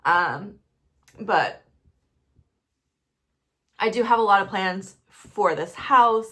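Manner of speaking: ordinary delivery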